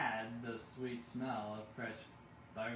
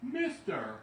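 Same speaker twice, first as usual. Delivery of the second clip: high, loud, bossy little creature; shrill little forest warden calling out; sharpish bossy Lorax; 7 semitones higher, 6 dB louder than usual. A narrator's reading. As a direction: bark it like a cranky old guardian. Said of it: "he said".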